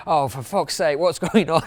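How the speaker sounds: lightly imitated Argentinian accent, mock exasperated; a hint of an Argentinian accent, laughing through the end. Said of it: "in his Argentinian accent".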